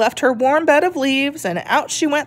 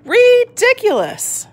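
much higher, slow and louder sneer; scoffing dog; 14 semitones higher, 4 dB louder, slower than usual. Acted. The dog mocks the tortoise, high slow scoff. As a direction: drawl it out mockingly.

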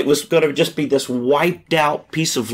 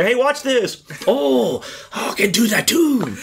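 high-pitched put-on Asian accent; comic mock-Asian accent, raised pitch; Indian turning Asian; 7 semitones higher than usual. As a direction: do a cartoonish Indian that slips into Asian. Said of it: "your Indian sounds like an Asian".

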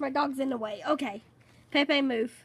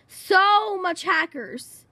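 slow, higher and louder; awed exclaim; 4 semitones higher, 6 dB louder, much slower than usual. Real, not acted. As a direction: savour each word in amazement. Awed at crowd of hackers.

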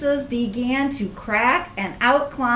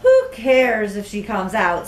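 scoffing; 2 semitones lower, 4 dB louder than usual. Acted. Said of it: "scoffed a scowling caterpillar".

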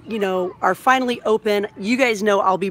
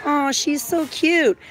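cooing; 6 semitones higher than usual. Real, not acted. Cooing over toy mouse.

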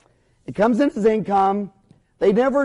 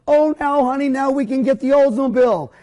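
mock giddy spender; 5 semitones higher than usual. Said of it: "they go".

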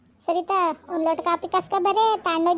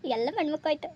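hushed, much softer gloating aside; sneaky aside; 3 semitones lower, 6 dB quieter than usual. Acted. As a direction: gloat under your breath so nobody hears. Gleeful eavesdropping aside. (ಮನೆಯವರಿಗೆ ಕೇಳದಂತೆ ಸೊಸೆಯ ಮೆಲ್ಲನೆ ಖುಷಿಯ ಮಾತು)

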